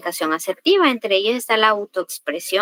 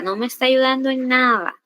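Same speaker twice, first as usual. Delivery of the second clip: aggressive; 3 semitones higher than usual. Shown as a demonstration. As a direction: scold a client as a classroom example. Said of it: "Comunicación agresiva". (reproche agresivo, apenas actuado)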